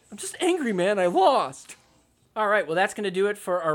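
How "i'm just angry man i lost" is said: whiny sulk. Retold or imitated. Mocking Alshon as whiny.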